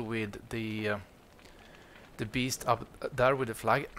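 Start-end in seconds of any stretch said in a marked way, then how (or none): 2.2-3.9 losing voice. Real, not acted. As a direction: voice catching in the throat. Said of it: "Sorry, I lost my, my voice".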